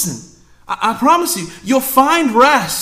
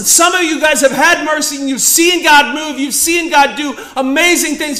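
preaching shout; 7 semitones higher, 4 dB louder than usual. Real, not acted. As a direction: raise the voice, preaching hard. Preacher at full force.

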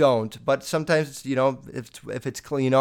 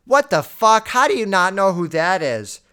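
imitating older fans, loud and higher; mock outraged yell; 5 semitones higher, 6 dB louder than usual. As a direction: blurt it out as a scandalised older listener. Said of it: "all the oldies are saying".

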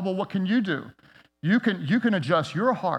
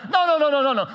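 emphatic no; 9 semitones higher, 5 dB louder, faster than usual. Real, not acted. Emphatic rejection.

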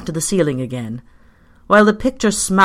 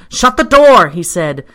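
panted, frantic order; 3 semitones higher, 9 dB louder than usual. A narrator's reading. Anxious Pyecraft orders visitor to shut door, frantic shout. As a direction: shout it in agitation. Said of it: "He panted and gesticulated".

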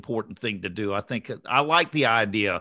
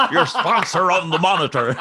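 higher and louder, laughing through the words; 6 semitones higher, 5 dB louder than usual. Real, not acted. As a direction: crack up while repeating it. Repeats joke while laughing.

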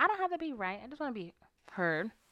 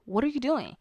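a little harsh; 5 semitones higher than usual. Shown as a demonstration. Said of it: "maybe I said it a little harsh".

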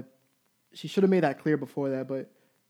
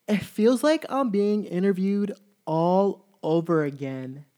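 imitating her; 3 semitones higher, slower than usual. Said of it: "this is exactly what she says".

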